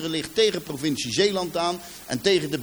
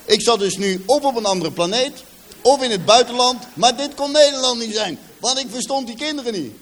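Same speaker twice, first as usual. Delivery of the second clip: loud, much higher astonished telling; loud, high amazement; amazed outburst; 7 semitones higher, 7 dB louder than usual. Retold or imitated. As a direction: exclaim how alien it all seemed. Amazed at strange dialect.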